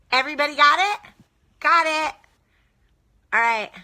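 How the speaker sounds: high, syrupy devoted-wife act, lightly voiced; mock the doting wife with a sugary lilt; super dedicated wife voice. Mocking men like Steve with a devoted wife voice. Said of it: "my super dedicated wife voice".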